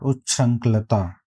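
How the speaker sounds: उच्छृंखलता slowly, uch-chhrank-la-taa; उच्छृंखलता slow, long final taa; correct answer. Shown as a demonstration. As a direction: say उच्छृंखलता carefully with a falling end. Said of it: "इसका सही answer हो जाएगा".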